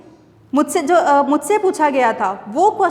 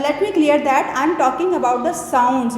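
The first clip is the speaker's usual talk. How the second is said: very slow, word by word; slow emphatic; much slower than usual. Shown as a demonstration. Teacher stressing to students it's about sounds. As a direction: drive the point home slowly. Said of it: "Students, uh".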